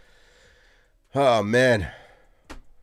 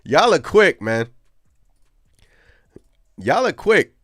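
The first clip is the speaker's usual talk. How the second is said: excited; 7 semitones higher, 7 dB louder than usual. Real, not acted.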